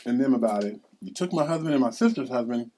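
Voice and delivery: loud, hard confrontation; mother accusing the villain of taking her kids; loud accusation. Acted. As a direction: lay into the villain.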